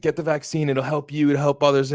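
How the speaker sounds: lightly imitated Australian accent. Mimicking Bogut's paid vaccine message in a light Australian accent. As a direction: read it like a scripted Australian ad. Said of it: "in his Australian accent".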